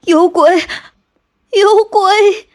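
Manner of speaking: high, scared calls of alarm; panicked yelling about a ghost; frightened cry. Acted. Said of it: "连声喊道".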